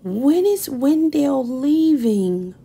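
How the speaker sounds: slow unvoiced whisper. A narrator's reading. Sophie whispering to her parents, slow hushed plea. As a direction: breathe it so parents barely hear. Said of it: "whispered Sophie".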